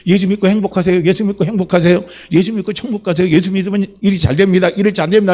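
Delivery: lightly acted street evangelism pitch; even, chant-like call, as if to passers-by; street evangelist's call. Preacher acts out greeting people with tracts, evangelist's call.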